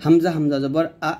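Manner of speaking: হামজা জবর আ with a sharp push on the আ; clipped glottal push on আ; pushed glottal stop. Shown as a demonstration. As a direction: push the আ out with a catch in the throat. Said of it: "ধাক্কা দিয়ে বলবেন".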